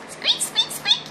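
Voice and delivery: very high, tiny squeaking mouse voice; mouse squeaks. Pretend. Finished balloon mouse squeaking for the viewers, very high squeaks. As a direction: squeak like a little toy mouse. Two mice squeak together.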